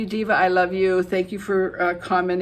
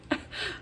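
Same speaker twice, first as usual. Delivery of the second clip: short, soft chuckle; quiet laugh at a funny memory; 11 dB quieter than usual. Real, not acted. Recalling viewers' funny comments, soft chuckle.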